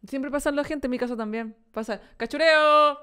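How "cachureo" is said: scrap collector's cry, lightly raised; imitated street call. Imitating the scrap collector who passes the house, calling out. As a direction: call it out like a passing junk collector. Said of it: "así grita".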